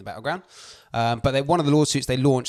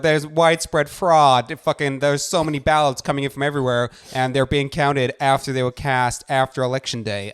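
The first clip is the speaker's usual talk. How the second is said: put-on American accent; 3 semitones higher, 4 dB louder than usual. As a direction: spell out the fraud claim in American. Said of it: "That is a better accent".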